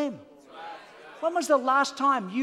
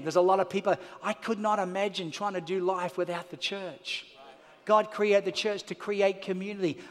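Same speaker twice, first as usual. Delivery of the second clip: lower, softer heartfelt sermon voice; intimate preaching; 5 semitones lower, 4 dB quieter than usual. Real, not acted. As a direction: speak close and sincere.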